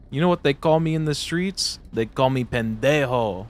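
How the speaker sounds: loud swaggering street boast; tough street brag. Pretend. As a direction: puff up and brag.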